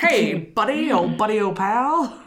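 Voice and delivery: friendly threat, mob style; mobster voice. Retold or imitated. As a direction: play the smiling gangster pal. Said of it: "sound like I'm a mobster".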